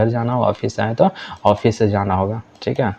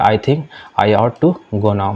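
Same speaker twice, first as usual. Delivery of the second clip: slow, careful classroom English; deliberate teacher read-aloud; slow model reading; much slower than usual. Shown as a demonstration. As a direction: spell each word out slowly for learners. Teacher reads model sentence.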